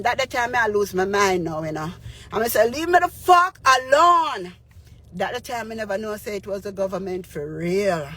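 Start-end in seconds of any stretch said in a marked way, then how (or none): 2.7-4.5 retold angry outburst. Cursing at government caller.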